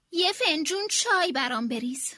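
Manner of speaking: shout. Acted. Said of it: "فریاد زد".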